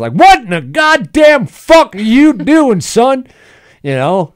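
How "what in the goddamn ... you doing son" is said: high, loud, slow Southern bellow; yelling Southern redneck. Pretend. S0 as Big Earl bellowing at his son, slow Southern yell. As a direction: bark it like an angry country dad. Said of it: "ten minutes of me just doing this".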